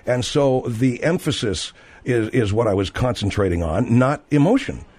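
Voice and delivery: insistent, point-by-point self-defence; emphatic. Acted. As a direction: keep stressing that it is emphasis, not emotion. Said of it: "I'm being emphatic".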